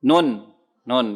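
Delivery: Nun drawn out slowly on the tongue tip; slow, careful demo of Nun; articulated nun. Shown as a demonstration. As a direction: hold the n of Nun at the upper gums. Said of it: "nun ujung lidah ketemu gusi".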